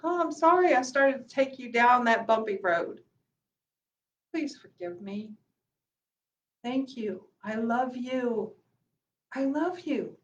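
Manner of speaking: soft, tender apology to yourself; tender self-talk. Shown as a demonstration. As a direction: speak gently to your own mind, as if soothing a friend. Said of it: "we have to tell ourselves".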